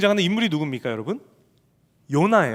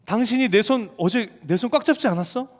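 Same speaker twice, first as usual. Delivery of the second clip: accusing wife; 6 semitones higher than usual. Retold or imitated. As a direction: hurl the blame back at him. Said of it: "이 음성이 떠나질 않는 거예요".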